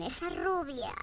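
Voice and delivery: high, loud, very slow drawn-out "Madre mía"; old man's leering sigh. Retold or imitated. Pensioner sighing after a blonde, high, loud and drawn out. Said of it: "se ha quedado solo en".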